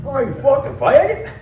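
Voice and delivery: high, loud mock Southern hick; hammed-up Southern redneck jeer; lightly voiced Southern yokel. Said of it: "he's like, a hick from the South".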